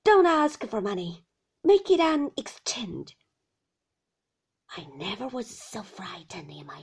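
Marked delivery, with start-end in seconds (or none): 0.0-3.2 loud, high, whining command; old shopkeeper crying out; fierce old man. A narrator's reading. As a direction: rant it in a falling singsong. Old shopkeeper raging at the boy.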